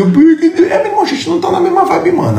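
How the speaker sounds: high laughing mock of a friend; mocking imitation. Speaker mocks a friend saying they've drifted apart, high laughing parody. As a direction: pitch it up and sneer through a laugh.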